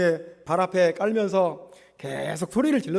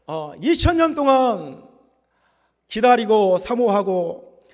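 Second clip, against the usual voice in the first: raised, mildly shouted proclamation; crowd's joyful cry; 3 dB louder than usual. Acted. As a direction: cry out like a welcoming crowd, stretching phrase ends. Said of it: "막 소리를 지르는 것입니다". (환호하며 외치는 소리)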